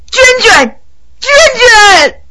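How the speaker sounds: high desperate calling; calling out desperately. Acted. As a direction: call her name, shaking her. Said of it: "傅恒一边叫着".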